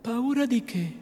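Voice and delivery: a touch of tender calm; gentle sweet voice. A narrator's reading. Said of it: "diceva quella voce suave".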